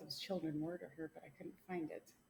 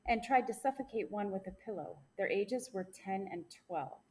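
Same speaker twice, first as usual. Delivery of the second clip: news read. Acted. Reads news segment.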